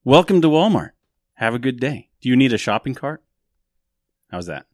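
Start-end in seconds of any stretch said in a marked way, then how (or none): 0.0-3.2 a Sudanese Walmart greeter, higher and louder, hammed up; bad put-on Sudanese accent greeting shoppers; mock Sudanese greeter accent. Greeting Mac as a Sudanese Walmart greeter, a hammed-up accent. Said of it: "Sudanese Walmart greeter".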